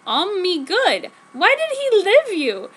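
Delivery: slow concerned question. Acted. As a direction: ask gently but worried. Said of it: "in a concerning tone of voice".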